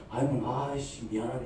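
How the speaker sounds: low, hushed sigh of guilt; guilty regret. Acted. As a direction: murmur it to yourself, sorry. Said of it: "이런 마음이 듭니까".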